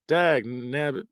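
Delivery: slow put-on cranky codger; mock old-timer. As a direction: grumble it like a grandpa. Mocking phrase.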